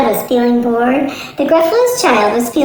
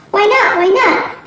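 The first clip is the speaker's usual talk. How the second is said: high, eager little-monster voice; a curious child tugging at dad; child's high pleading; 8 semitones higher than usual. Acted. Child asks her father, high and eager.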